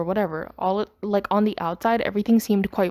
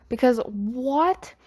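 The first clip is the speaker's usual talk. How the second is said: slow, raised-pitch disbelief; incredulous; 4 semitones higher, much slower than usual. Real, not acted. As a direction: draw out a baffled, rising question. Reacting to the couple reuniting.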